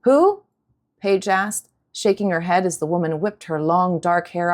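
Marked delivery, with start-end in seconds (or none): 0.0-0.4 surprised. Acted. Girl surprised by newcomer.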